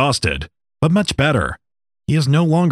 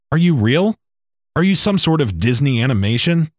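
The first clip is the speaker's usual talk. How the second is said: higher, pressing questions, rising disbelief; a stranded man grilling a talking snake, flustered and higher; 5 semitones higher than usual. Acted. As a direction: fire off the questions faster and faster in disbelief.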